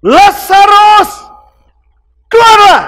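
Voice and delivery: long booming call, stretched slow; Jesus calling Lazarus out. Acted. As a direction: call the dead man out of the tomb. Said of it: "Yesus berseru dengan suara keras".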